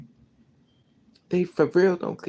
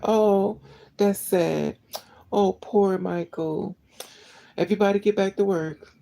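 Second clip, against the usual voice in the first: higher, slow sarcastic pity that snaps to an order; mock fake sympathy; 4 semitones higher, slower than usual. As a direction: sneer a hollow condolence. Mocks fake sympathy of bosses.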